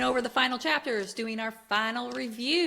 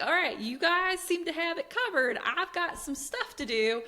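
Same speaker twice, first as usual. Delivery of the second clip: mock-patient retelling; 8 semitones higher than usual. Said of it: "then he's like".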